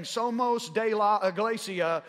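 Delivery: slow Spanish in a thick Arkansas drawl; southern drawl Spanish. Retold or imitated. Redneck teen at a Mexican door, slow southern-drawl Spanish. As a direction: butcher "Somos de la iglesia" with a southern drawl. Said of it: "I butcher it in my, my southern drawl".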